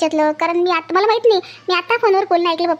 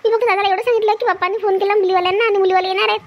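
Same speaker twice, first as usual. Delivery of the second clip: pleading; 4 semitones higher than usual. Acted. Accused sister-in-law pleading innocence.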